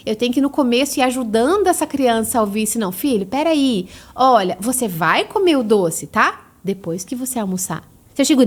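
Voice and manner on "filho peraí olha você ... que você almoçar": put-on slow, gentle explanation to a child. Shown as a demonstration. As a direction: calmly explain the candy comes later. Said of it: "é diferente".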